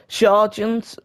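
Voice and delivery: Sargent said with a slight foreign accent, SAR-zhent; a touch of accent on Sargent; accented name. Real, not acted. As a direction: give Sargent a light put-on foreign accent. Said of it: "I don't know why I put an accent on".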